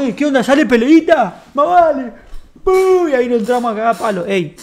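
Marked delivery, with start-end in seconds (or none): 0.0-2.1 put-on high, loud kids egging each other into a scrap; rowdy fight call. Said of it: "y decíamos". 2.6-3.1 a high, loud punch noise; punch sound effect. Retold or imitated.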